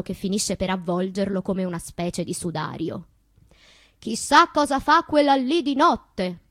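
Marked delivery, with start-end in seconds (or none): 4.0-6.4 higher, louder gossiping neighbour; nosy gossip. Acted. Neighbours wondering about her nights, in a gossipy voice. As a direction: sneer it like a busybody.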